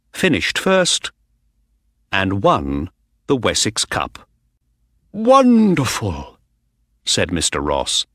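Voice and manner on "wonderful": high, drawn-out cry of joy; overjoyed winner's cry; delighted exclamation. A narrator's reading. Owner delighted after the win.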